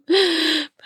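sharp high gasp. Acted. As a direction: gasp with pleasure mid-story. Orgasm moment in narrated story.

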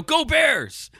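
high excited cheer at the screen; yelling. Retold or imitated. Cheering the falling bear in the movie, high shouted cheer. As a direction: shout it like a fan at a game. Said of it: "and I just yell".

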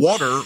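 WATER with the r dropped, "waw-tuh"; New York pronunciation. Shown as a demonstration. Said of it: "where water becomes water".

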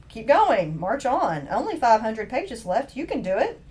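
lightly acted pep talk; inner cheerleader. Host voicing the urge to finish a book, mildly rallying. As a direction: urge yourself on, phrase by phrase. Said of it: "something within me just says".

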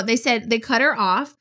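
ordinary delivery

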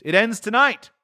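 high, grave spirit voice; ghost voice. Acted. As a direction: speak as the aging spirit. Ghost speaks.

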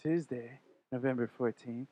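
lightly voiced radio host intro; a hint of a laid-back DJ; Enrique impression. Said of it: "do my best Enrique in front of Enrique".

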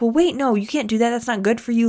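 put-on mildly heated objection to her boyfriend; getting heated. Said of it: "got heated".

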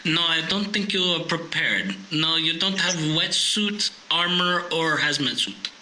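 lightly put-on German accent, deadpan warning; deliberate, mock-German caution. German guy in the corner warning a would-be suitor, mock German accent. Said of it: "there'd be a German guy sitting in the corner going".

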